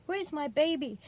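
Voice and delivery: lightly imitated Southern accent, pitched high; high, proper Southern-accented question; Maya Angelou. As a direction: ask it in a Southern African-American lilt. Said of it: "I'm saying it in this sort of accent because that's how I remember".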